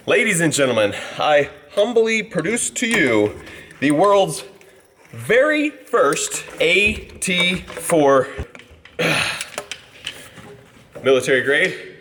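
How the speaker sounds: slow, drawn-out showman unveiling; mock grand announcer. Vlogger unveils rocket launcher beer bong to viewers, mock showman announcement. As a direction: ham up the unveiling like a ringmaster.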